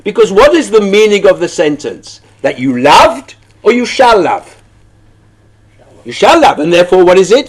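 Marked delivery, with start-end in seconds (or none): none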